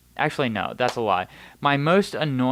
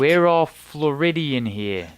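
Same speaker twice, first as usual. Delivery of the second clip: slow, louder, higher mock tough-guy line; mock Philly mob voice; 4 semitones higher, 5 dB louder than usual. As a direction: play a Philly wiseguy posing as a Floridian. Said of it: "This is what we sound like".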